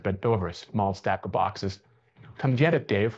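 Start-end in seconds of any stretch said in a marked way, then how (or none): 2.4-3.2 purring. Acted. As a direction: purr it out as an invitation. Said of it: "Lexi purred".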